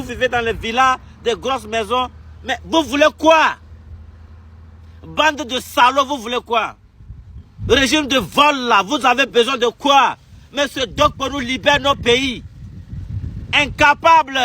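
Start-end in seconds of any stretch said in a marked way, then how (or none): 2.4-6.8 angry shout. Real, not acted. A furious critic demanding answers from the regime, angry shout. 13.5-14.4 loud, higher single-word jab; angry insult. Real, not acted. An angry exile branding the president useless, loud jab.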